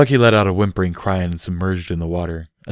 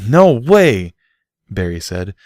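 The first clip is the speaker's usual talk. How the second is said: higher, louder mock-grand vow; playful theatrical threat; mock declaration; 5 semitones higher, 5 dB louder than usual. A narrator's reading. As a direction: declare war with relish. Barry declaring revenge.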